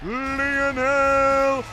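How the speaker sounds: slow, drawn-out winner announcement; ring announcer. Acted. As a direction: stretch each word like an announcer.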